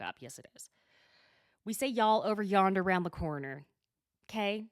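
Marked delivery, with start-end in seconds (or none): 1.9-3.6 loud Oklahoma Southern demo; emphatic Southern accent. Shown as a demonstration. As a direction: show off your Southern twang, louder. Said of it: "struggling with my Southern accent".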